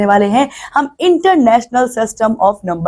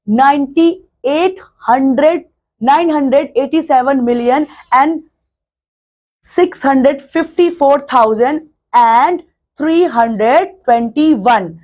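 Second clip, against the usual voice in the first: slow model reading; much slower than usual. Shown as a demonstration. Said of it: "इसको हम pronounce करेंगे".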